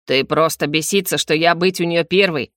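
лёгкая насмешка; небрежно отмахнись от соперника; Альф. Acted. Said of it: "насмешливо отмахнулся от него Альф". (слегка насмешливо)

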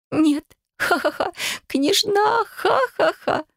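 high, squealing words through laughter; laughing hysterically. A narrator's reading. Katya laughing hysterically at the word princess. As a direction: laugh it out, unable to stop. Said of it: "продолжала хохотать она".

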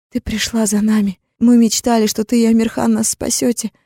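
little sisters crying to Zara, tearful and hopeful; tearful girls' voice. Acted. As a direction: cry out in relief as a child.

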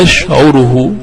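أشعره said ash'uruhu, u after the ayn; damma on the ayn. Shown as a demonstration. Teacher repeats the heard Arab form, damma on ayn. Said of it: "بالضم".

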